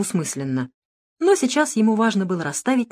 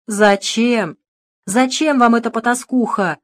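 higher, louder whining lament; wailing; 5 semitones higher, 5 dB louder, slower than usual. A narrator's reading. Director wailing about the missing secretary. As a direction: wail the question. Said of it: "запричитал Русаков".

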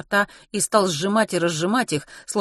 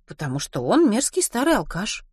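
higher-pitched, measured explanation; judicious reply; 4 semitones higher than usual. Acted. Ruth explains why Len drinks, mildly judicious. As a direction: explain it reasonably, as obvious fact. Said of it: "рассудительно проговорила Рут".

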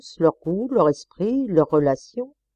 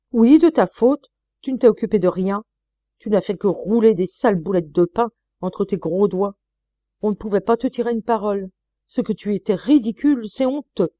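higher, louder scolding tirade; angry berating; 3 semitones higher, 4 dB louder than usual. Acted. Wife berating her husband in a quarrel, angrily loud. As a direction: pile on the contempt, rising.

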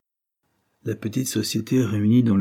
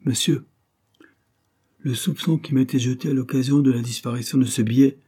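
raised, agitated outburst; crying out; 5 semitones higher, 4 dB louder than usual. Acted. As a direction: call after him, worked up. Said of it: "en s'écriant".

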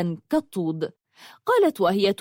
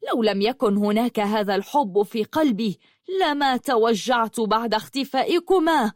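bitter fury. Acted. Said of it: "قالت بحنق شديد".

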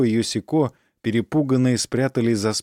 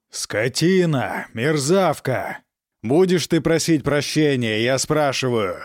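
furious father; 3 semitones higher than usual. Acted. Count whips daughter.

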